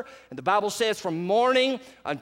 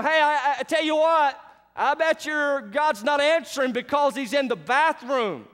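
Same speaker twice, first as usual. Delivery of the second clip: higher teasing taunt; mocking; 6 semitones higher than usual. Elijah taunting the prophets of Baal, higher mocking voice. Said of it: "he began to mock them".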